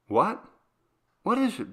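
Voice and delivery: high, sharp alarmed question; a mother jolted awake by fear; startled mother. A narrator's reading. Mother asking frightened Maria, high alarmed. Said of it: "mother startled by child".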